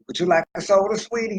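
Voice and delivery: high, honeyed little question; sweet-talking. Retold or imitated. A man on a date offering his date a soda, sweet coaxing. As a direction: coax her toward the cheap soda.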